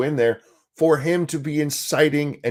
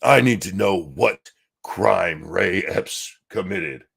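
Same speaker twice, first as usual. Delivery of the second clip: mocking quote; 4 semitones lower, slower than usual. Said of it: "came out today and said".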